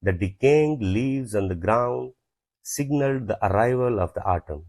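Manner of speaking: slow, word by word dictation. Shown as a demonstration. Teacher dictating an example sentence slowly to students. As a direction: spell each word out slowly for the class.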